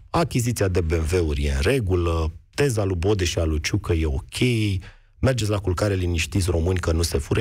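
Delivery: dry, understated sarcasm; mock reassurance with little change of voice; sarcastic. Real, not acted. Politician mocking the government's excuses to radio listeners, sarcastic. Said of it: "Evident, sunt sarcastic".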